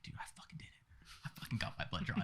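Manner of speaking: hushed, barely voiced boast; spent triumph. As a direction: act out a weak little victory video. Retold weak selfie video afterwards.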